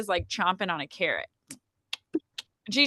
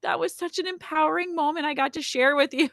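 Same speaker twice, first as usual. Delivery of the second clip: tender thanks; 9 semitones higher than usual. Retold or imitated. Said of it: "My sister said".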